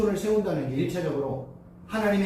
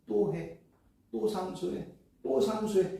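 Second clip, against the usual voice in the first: God urging; 5 dB quieter, slower than usual. Retold or imitated. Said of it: "이렇게 얘기 안 하세요".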